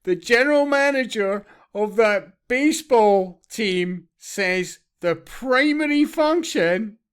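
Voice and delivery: high, laughing disbelief, slowing for emphasis; incredulous laughter. Real, not acted. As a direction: scoff it out through a laugh, loud and high. Incredulous laughter at played clip.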